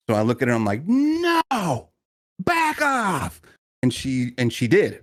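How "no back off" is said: high sharp command to back off; firm shout. Retold or imitated. Backing down aggressive woman.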